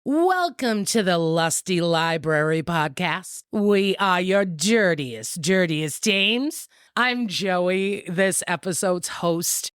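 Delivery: slow showy host introduction; podcast host intro. Acted. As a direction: roll out the names slowly. Formal show opening introductions.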